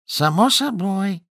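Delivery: high, slow squeak; squeaky. Acted. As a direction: squeak it out in fright. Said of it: "пропищал Гарри".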